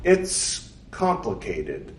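unsure how much to tell her; hesitant. Acted. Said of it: "Charles Rubin hesitated".

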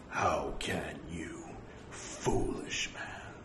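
slow, whispered rebuke of a foolish man; hushed rebuke. Acted. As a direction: whisper the scolding slowly, almost unvoiced. The Lord rebukes a monk.

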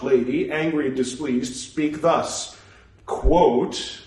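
measured reading aloud, naming every punctuation mark; steady recital voice; scripture recital. Acted. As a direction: recite it like a formal text. Resumes the recital.

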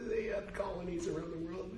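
a lightly voiced high explaining voice; imagined patient explainer. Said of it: "like, say".

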